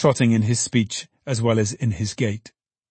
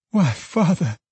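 Meg voiced higher; 7 semitones higher than usual. Meg's voice, daughter.

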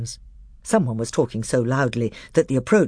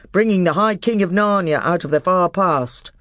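dwarf voice; 6 semitones higher, 5 dB louder than usual. A narrator's reading. Dwarf Trumpkin speaks.

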